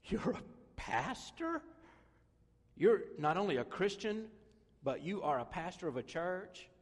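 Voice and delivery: mock shock at the news; old friend's astonished double take; incredulous friend. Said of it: "they visit and they go".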